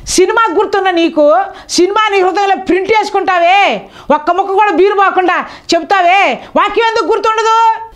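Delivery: scolding pulpit appeal; preaching rebuke. Acted. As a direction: push the question at them.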